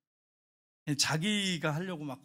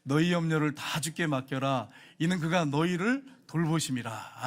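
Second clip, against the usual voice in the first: slow, measured unison reading; congregational scripture reading. Real, not acted. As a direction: read the verse slowly together. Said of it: "같이 읽겠습니다". (느리게 함께 읽는 성경 봉독)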